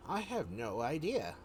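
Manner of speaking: lightly voiced halfling; hint of a halfling character voice. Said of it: "It's the halfling".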